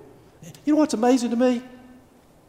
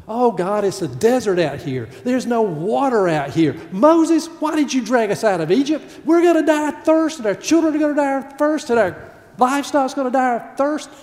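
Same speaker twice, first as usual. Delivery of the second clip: higher, louder panicked whining; complaining to Moses; 6 semitones higher, 4 dB louder than usual. Acted. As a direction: wail at Moses, sure you'll die of thirst. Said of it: "Grumble, grumble, grumble".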